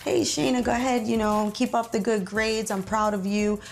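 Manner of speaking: mildly upbeat imitation of cheering someone on, easing down; imagined encouragement. Imagined relative praising Shayna for her grades, mild encouragement.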